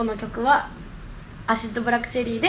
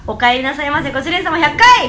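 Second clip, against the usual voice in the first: barked maid greeting order; 7 dB louder than usual. Acted.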